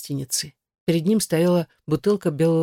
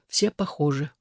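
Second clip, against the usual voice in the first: plain reading voice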